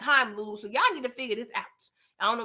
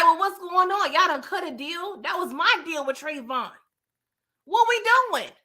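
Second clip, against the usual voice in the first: acting out a confrontation, pitched up; retold indignant questioning; 4 semitones higher than usual. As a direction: demand answers as the one cut out. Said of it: "just got me real aggravated".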